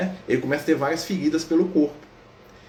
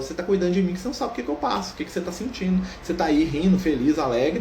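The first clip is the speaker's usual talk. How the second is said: fast, higher, accusing complaint, half acted; bitter leper's reproach; 4 semitones higher than usual. Leper scolding Francis for smiling while he suffers, fast and bitter. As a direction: throw it in his face like a suffering leper. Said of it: "o leproso jogou na cara dele, falou".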